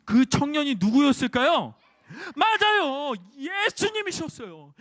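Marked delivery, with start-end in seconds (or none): 0.0-1.8 louder repeated question. Shown as a demonstration. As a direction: ask the children again, louder. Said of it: "다시".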